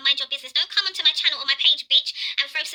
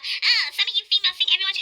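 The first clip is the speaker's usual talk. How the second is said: mocking quote; 5 semitones higher than usual. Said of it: "you're talking with your jealous, bad mind self".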